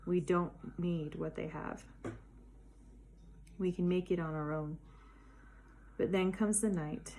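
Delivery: measured poetry reading in connected phrases; poem recitation. Acted. Poet shares her poem on loneliness with listeners, reciting. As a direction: recite it as a heartfelt personal poem. Reads own poem aloud.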